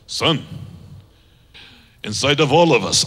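put-on low, measured Native American chief accent. Indian chief to his grandson, in a Native American accent. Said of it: "I just think an accent makes it a little better".

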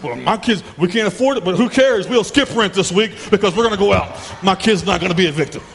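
mock defiant dad; indulgent parent. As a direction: play the parent who gives in.

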